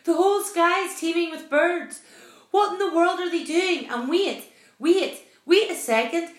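loud, high, agitated captain; astonished cry. A narrator's reading. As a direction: stammer in disbelief while shouting out the sighting. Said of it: "he cried".

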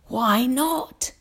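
high, airy questioning; old grasshopper. A narrator's reading. Old grasshopper questions James's doubt, high and mild. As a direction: ask mildly, lifting the pitch.

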